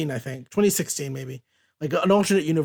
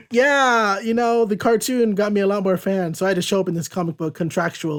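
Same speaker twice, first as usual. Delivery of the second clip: lightly voiced, higher perky reply; a hint of a chirpy comic-book heroine; Jubilee; 4 semitones higher than usual. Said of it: "And Jubilee's like".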